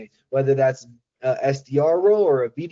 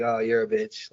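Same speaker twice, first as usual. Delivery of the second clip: softer, a joking jab; playful teasing insult; 4 semitones lower, 4 dB quieter than usual. Retold or imitated. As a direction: tease her partner, not meant. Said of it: "it's kind of like a joke".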